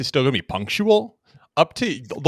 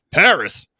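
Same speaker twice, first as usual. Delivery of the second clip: a hint of a suspicious old uncle; imitating the uncle; 2 semitones higher than usual. Retelling the fiancée's uncle warning about the French, lightly mocking. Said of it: "her uncle comes over ... and goes".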